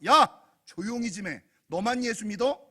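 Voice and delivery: irritated shushing with loud bursts; playing an annoyed crowd telling someone off; acted scolding. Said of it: "그를 꾸짖어 잠잠하라".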